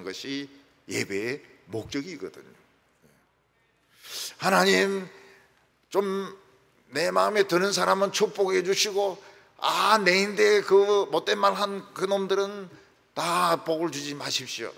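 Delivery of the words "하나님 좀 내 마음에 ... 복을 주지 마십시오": mock petty prayer, a bit louder; hammed-up spiteful petition. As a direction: pray like a narrow-minded grudge holder. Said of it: "이렇게 옹졸하면 안 돼".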